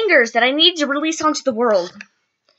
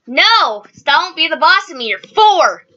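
annoyed retort; 3 semitones higher, 4 dB louder, slower than usual. Real, not acted. Arguing with four-year-old sibling.

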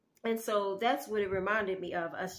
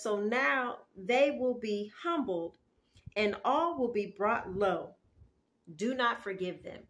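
scripture reading. Acted. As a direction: declare the verse with measured weight. Reads Isaiah verse nine aloud.

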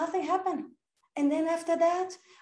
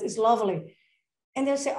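usual speaking voice

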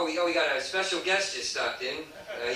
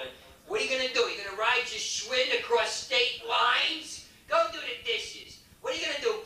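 higher nagging parental scold; 5 semitones higher than usual. Retold or imitated. Father scolding his young son about dishes, high exasperated nag. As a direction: nag him like a fed-up father.

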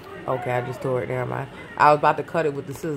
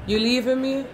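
high, whiny mock plea; playful high whine at a friend; 8 semitones higher than usual. Real, not acted. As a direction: pretend to be hurt he's going. Teasing friend who is leaving.

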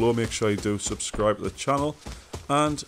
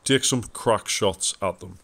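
tongue stuck, stumbling over words; tongue stuck to roof. Real, not acted. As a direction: talk with tongue stuck to palate. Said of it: "my tongue got stuck to the roof of my mouth".

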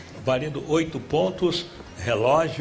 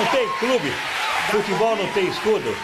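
higher-pitched, lively rebuttal; animated insistence; 5 semitones higher than usual. Real, not acted. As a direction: argue it back, pitched up. Host insists on the answer. (insistência animada, voz mais aguda)

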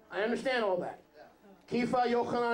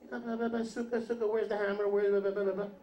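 blabbing. Acted. Preacher imitating Kepha prattling about building, blabbing. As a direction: run the words together in mock babble. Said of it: "mouthing off and blabbing".

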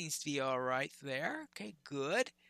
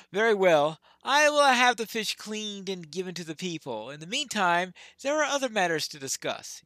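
a slightly raised, formal lord reading his lines; lightly voiced Rohan lord; 7 dB louder than usual. Player voicing the quest giver to the hobbit, lightly formal. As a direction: read the lord's reply with a little weight.

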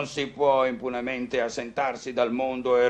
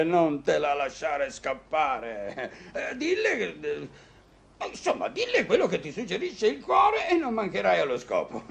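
chuckling advice; 4 semitones higher than usual. Acted. Doctor laughing while advising.

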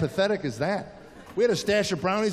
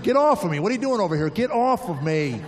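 irritated wife; 3 dB louder than usual. Retold or imitated. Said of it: "that's the sound of twenty-seven years of love".

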